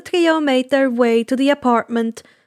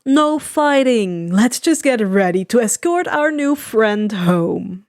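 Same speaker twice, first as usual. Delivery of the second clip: slow placating voice; 2 semitones lower, slower than usual. Acted. Compress breaking up a squabble.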